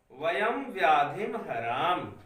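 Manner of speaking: slow, spaced dictation for students to write; धीरे धीरे बोलना. Shown as a demonstration. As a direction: read each word slowly so the class can copy. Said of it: "मैं इतना धीरे धीरे बोल रहा हूँ". (बच्चों को लिखवाने के लिए धीरे धीरे पढ़ना)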